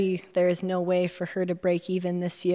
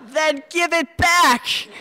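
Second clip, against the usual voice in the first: much higher, louder, slow retort; dry retort; 9 semitones higher, 6 dB louder, slower than usual. Acted. Rose answering the narrator's claim, dry retort. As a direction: hand it right back at her.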